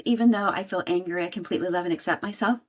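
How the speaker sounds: quick, rattled-off affirmation; quoting a tapping script. Retold or imitated. Quoting online advice, a fast mock affirmation. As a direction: reel off the stock phrase fast. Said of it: "a lot online says".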